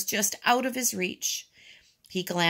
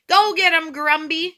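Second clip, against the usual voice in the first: high, loud cheering on; rousing high-pitched holler; yelling; 10 semitones higher, 7 dB louder than usual. A narrator's reading. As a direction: egg on a neighbor across the street. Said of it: "yelled the man across".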